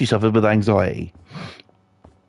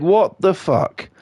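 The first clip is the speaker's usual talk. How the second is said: baffled; 5 semitones higher, slower than usual. Retold or imitated. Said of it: "wife sat there and was like".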